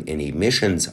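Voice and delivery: reading news in a light Irish lilt; a hint of an Irish brogue; Irish accent. Reading the article to viewers, light Irish accent. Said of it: "I don't know why I'm talking like this... I'm doing Ireland".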